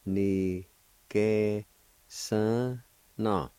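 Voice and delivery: each syllable said apart with a pause. Shown as a demonstration. Teacher sounding out the second part, syllable by syllable. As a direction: sound out every piece separately. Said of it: "Second part".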